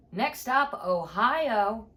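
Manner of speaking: loud intercom announcement; mock cabin announcement, pushed loud; drunk flight attendant. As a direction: call out the stop like a tipsy attendant. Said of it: "on the intercom".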